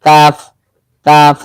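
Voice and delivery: কাফ with an ordinary front "k" and long open "aa"; easy, unweighted "kaaf", held; natural light কাফ. Shown as a demonstration. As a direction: say কাফ with no heaviness in the throat. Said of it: "আর কাফের উচ্চারণটা হবে আমাদের স্বাভাবিকভাবে".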